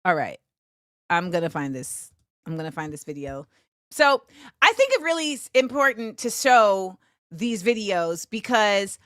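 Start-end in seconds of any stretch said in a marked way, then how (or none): 0.0-3.5 speaking English softly in a light Spanish accent; slipping into a Spanish accent mid-stream. Real, not acted. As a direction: drift into a Latino accent, low and quiet. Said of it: "started talking in this acento".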